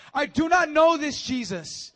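high, loud, slow and hammered; angry denial. Acted. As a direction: spit out each word. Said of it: "he starts to curse".

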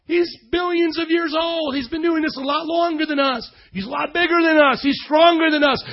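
high, insistent pulpit voice; emphatic preaching. Real, not acted. Preacher to congregation on God's greatness, emphatic preaching. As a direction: build God up point by point.

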